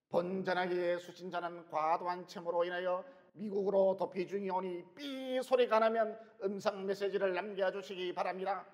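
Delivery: imitating a recorded phone message; answering machine voice. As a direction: read it like an automated voicemail. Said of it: "부재중 기계음 소리 흉내를 내는 거예요".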